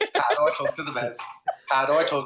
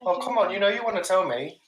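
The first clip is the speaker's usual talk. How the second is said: a hint of a higher wheedling voice; lightly voiced coaxing, luring him to talk; coaxing persona; 6 semitones higher than usual. Player coaxing the prisoner, lightly higher wheedle. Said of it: "And then I say".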